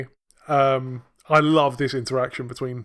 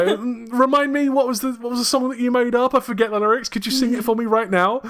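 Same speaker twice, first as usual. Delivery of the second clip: teasing Smithy voice; 7 semitones higher than usual. Retold or imitated. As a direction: sweetly needle him, pretending to forget. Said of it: "Smithy's like".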